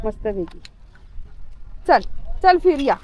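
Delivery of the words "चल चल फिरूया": loud, cheerful call to the dog; upbeat shout to a pet. Real, not acted. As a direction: call him over from a distance. Calling the dog for a walk.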